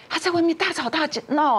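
laughing at the absurd scene. Real, not acted. Laughing while telling of the scene. (边笑边说)

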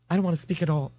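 high, mildly tearful voice; sniffly. A narrator's reading. Mother refusing to speak to her son, sniffly. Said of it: "Missus Riley sniffed".

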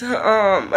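a teary laugh breaking through; laughing through tears. Real, not acted. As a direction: laugh while about to cry. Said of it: "I'm emotional".

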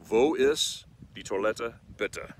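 slow, clear "Wo ist die Toilette, bitte"; say it together. Shown as a demonstration. Host leading viewers to repeat slowly. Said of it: "let's say it together".

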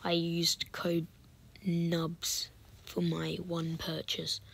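soft, slow whisper; hushed plug. Real, not acted. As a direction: slip it in quietly.

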